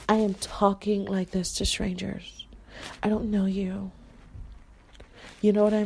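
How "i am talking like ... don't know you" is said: much softer, held back and reserved; a guarded, hushed delivery; quiet stranger voice. Shown as a demonstration. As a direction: pull the voice way down for strangers. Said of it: "I'm talking like this".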